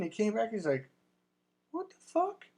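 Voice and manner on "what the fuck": very high, incredulous mock voice; the friend stunned by the result, voiced very high; mock astonishment. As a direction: squeak it out in disbelief.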